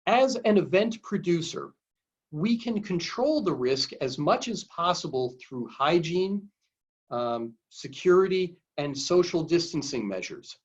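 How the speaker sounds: reading aloud slowly, with pauses between phrases. Real, not acted. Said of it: "I'll read it slowly".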